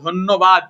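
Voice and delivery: ধন্যবাদ as "dhon-no-bad"; doubled n. Shown as a demonstration. Teacher completing the word for students, ধন্যবাদ with doubled n. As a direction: sound the n twice in ধন্যবাদ. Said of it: "এই উচ্চারণগুলো একটু মাথায় রাখবা".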